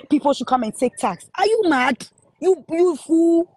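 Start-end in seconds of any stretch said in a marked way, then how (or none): 1.4-3.5 angry outburst. Real, not acted. Furious rant at critic.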